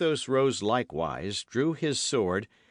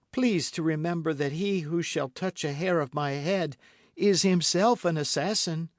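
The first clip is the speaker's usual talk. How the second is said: threatening; 7 semitones higher, 4 dB louder than usual. A narrator's reading. Milady threatening her judges.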